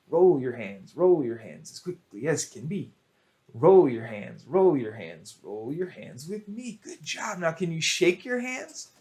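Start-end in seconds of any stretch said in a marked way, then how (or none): 0.1-5.9 fast. Shown as a demonstration. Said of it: "Now fast".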